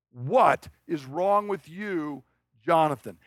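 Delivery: What is wrong with you dropped to normal pitch, very slow, falling in disgust; weary scorn. Retold or imitated. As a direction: drag out What is wrong with you like a father giving up on his son. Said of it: "But what he is saying is".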